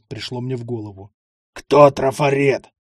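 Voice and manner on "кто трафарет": slow, loud, sepulchral question; grave voice. Acted. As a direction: ask it like a voice from the grave. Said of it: "могильным голосом произнёс". (могильный голос, медленно)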